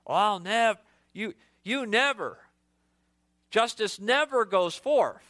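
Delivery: mock big-mouth vow; stress on never. Shown as a demonstration. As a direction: hit never hard. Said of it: "we use terms like never".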